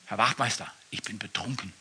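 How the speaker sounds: put-on low, quiet drunk admission; sheepish drunk confession. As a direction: admit it meekly, drunk.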